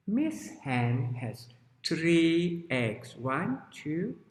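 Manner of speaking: slow, deliberate counting storyteller; children's story narration. Shown as a demonstration. Teacher opens the tale of Miss Hen, slow storytelling. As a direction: tell it slowly for small children.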